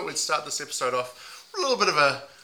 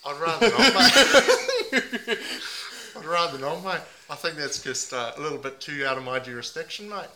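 a lightly put-on Aussie bloke accent, mate on every line; 3 dB louder than usual. Host playing a heartbroken meth packer in a mild put-on Aussie accent. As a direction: ham up the ocker Aussie, leaning on mate. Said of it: "put on a few different voices".

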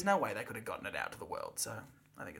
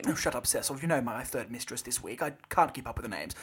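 put-on British accent; 4 semitones lower than usual. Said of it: "Suddenly now I'm British and sound nothing like".

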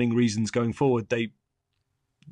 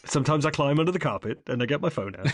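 laughing; 2 semitones higher, faster than usual. Real, not acted. Joking absurd claim.

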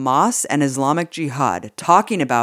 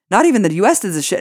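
higher, fast, indignant emphasis; incredulous and worked up, rushing the words; heated repeat; 6 semitones higher, 3 dB louder, faster than usual. Real, not acted. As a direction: hammer it home quickly in rising outrage. Repeats the line for outraged emphasis.

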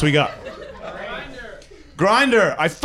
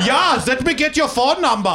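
mock flirty voice; 7 semitones higher than usual. Mocking a European woman.

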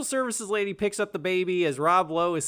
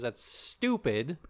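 mock mom retort; 4 semitones lower, 4 dB quieter, much slower than usual. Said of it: "His mom says".

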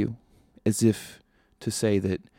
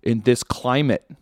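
lightly voiced breezy doctor, a bit louder; louder nurse with a mild know-it-all lilt; casual doctor impression; 3 semitones higher, 6 dB louder than usual. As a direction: play the unbothered ER doctor shrugging it off. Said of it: "and they're like".

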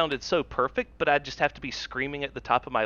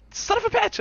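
retold exasperated curse. Panicked at seven-minute deadline.

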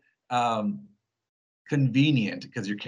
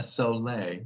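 lightly put-on French pronunciation of "Soleil"; imitated French accent; 6 dB quieter than usual. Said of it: "changes his accent to say the name of it".

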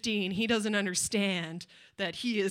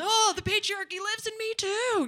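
mock sheepish confession; 9 semitones higher than usual. Mock self-quote realizing own sexism.

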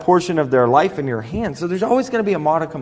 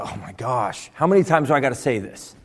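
exasperated eye-roll; 3 semitones lower than usual. Acted. Impatient leader to someone not getting it, exasperated. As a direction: groan it like an impatient boss. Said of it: "they don't roll their eyes and go".

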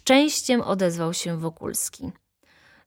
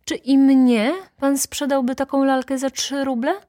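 high, louder probing question with rising end; challenging interrogation; 9 semitones higher, 5 dB louder than usual. A narrator's reading. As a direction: grill the seller in disbelief. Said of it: "indagowała baronowa". (natarczywe, wysokie pytanie)

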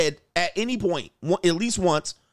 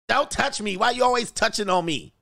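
mock wife; 5 semitones higher than usual. Wife voiced in retold story.

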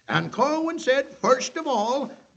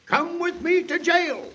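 stern arrest; 4 semitones higher than usual. Acted. Marshal makes the arrest.

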